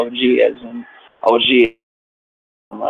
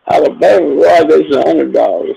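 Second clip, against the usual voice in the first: excited; 5 semitones higher, 5 dB louder than usual. Real, not acted. Reacting to the game.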